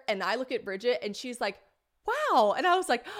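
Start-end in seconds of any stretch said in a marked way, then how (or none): 2.1-2.5 amazed reaction. Retold or imitated. Friend reacts to the outburst.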